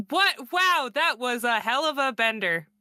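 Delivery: a performed exclamation meant to be overheard; very loud. Acted. Elodie covers for her friends before the watching driver, mildly loud and high. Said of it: "she just says very loudly".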